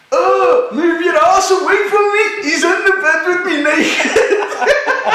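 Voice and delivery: disgusted shout. Retold or imitated. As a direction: yell at the naked mate to get away. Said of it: "I just hear from Andrew".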